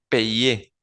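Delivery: "payer" said slowly as "pe-yé"; pronunciación de payer. Shown as a demonstration. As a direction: model "payer" with Y as a vowel glide. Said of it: "Se pronuncia". ("payer" despacio, como "pe-yé")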